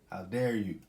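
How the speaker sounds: loud, indignant how dare you. Real, not acted. Vlogger scolding hijackers, loud indignant demand. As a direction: throw the outrage at them.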